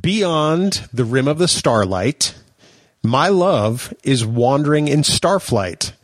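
very slow, drawn-out lyric reading; dramatic poem recitation. Acted. Podcast host reciting show lyrics to his co-host, slow and dramatic. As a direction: recite it slowly, lingering on each phrase.

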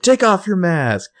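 high, slow mock-angry shout; retold enraged yell. Spencer yelling at the masked villain, high slow angry demand. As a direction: bark the order at the masked villain. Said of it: "yelling, like, enraged".

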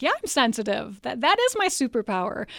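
loud, proud declaration; defiant retort. Real, not acted. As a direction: push it out loud, owning it. Defiant retort, proud of being sensitive.

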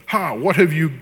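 mildly acted demon outcry; a touch of an unclean spirit crying out. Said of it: "the unclean spirit cries out".

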